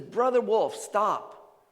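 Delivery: acted firm, loud order; commanding halt. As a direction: halt a charging beast. Francis commands the charging wolf.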